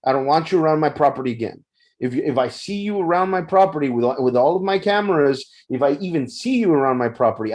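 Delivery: reenacted telling-off, quickening as it goes; retold losing it. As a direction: warn him off, firm but not shouting. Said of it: "I lost it, man".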